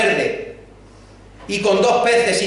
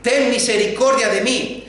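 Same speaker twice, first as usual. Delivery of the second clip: pleading cry; 5 semitones higher than usual. Retold or imitated. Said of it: "comienza a gritar".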